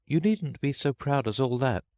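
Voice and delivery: put-on high, reproving girl; Alice voice. A narrator's reading. Alice putting down the turtle's pride, high and girlish. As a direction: chide in a high child's voice.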